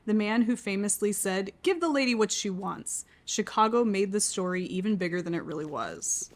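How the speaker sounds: slow, measured reading of a first line; reading aloud. Acted. She reads the book's first line to her partner, measured. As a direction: read it like an opening passage.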